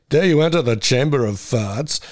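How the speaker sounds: slow, theatrical mock-ominous invitation; spooky ride announcer. Ghost ride host luring visitors in, mock-ominous voice. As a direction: dare them in drawn-out hammy tones.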